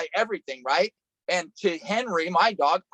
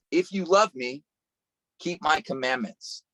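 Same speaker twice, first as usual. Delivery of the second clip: calm scripture read. Acted. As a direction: lay the verse down gently. Reading the verse from John.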